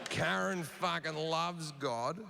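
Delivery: slow, sinking dread over Karen; a fan realising his night is ruined, slowly; dismayed fan. Retold or imitated. Fan sees Karen at the show, slow dismay.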